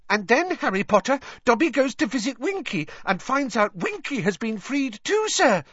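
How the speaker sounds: high, squeaky, delighted elf; delighted Dobby. A narrator's reading. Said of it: "said Dobby delightedly".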